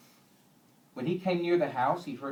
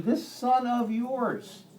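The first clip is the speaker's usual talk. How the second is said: slow, higher, "this" dragged long and scornful; scolding stress on this; 8 semitones higher, much slower than usual. Retold or imitated. Son scolding his father, slow contemptuous stress on "this". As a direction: spit out "this son of yours" at the father. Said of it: "He's scolding his father here".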